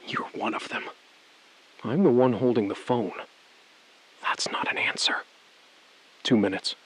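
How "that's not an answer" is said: hushed. Acted. Tense phone standoff, hushed.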